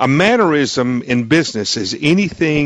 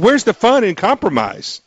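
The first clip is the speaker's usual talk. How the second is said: higher-pitched, playfully sarcastic repeat; 6 semitones higher than usual. Real, not acted. Host repeating his jibe after guest said pardon, sarcastic. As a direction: say it with mock objection, in fun. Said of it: "I'm being sarcastic".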